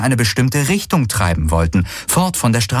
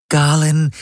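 lightly voiced artificial companion, higher pitch; Schattenhelix; 7 semitones higher than usual. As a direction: address him in a higher, level device voice. (leicht verstellte, höhere Helix-Stimme)

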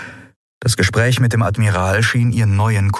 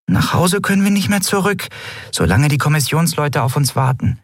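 much higher tiny voice, anxious; high worried Nelen; 8 semitones higher than usual. A narrator's reading. Small Nelen worries about home, high and anxious. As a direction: fret in a bright little fairy voice.

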